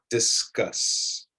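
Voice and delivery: discuss said clearly, falling at the end; model pronunciation. Shown as a demonstration. Teacher models discuss for students to copy. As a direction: say discuss as a model, stressing the second syllable. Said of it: "try those words after me".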